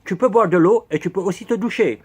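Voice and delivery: put-on clumsy English accent on French words; mock English accent, lightly done; horrible English accent. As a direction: keep up the bad English-accented guide voice. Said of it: "Quel horrible accent anglais".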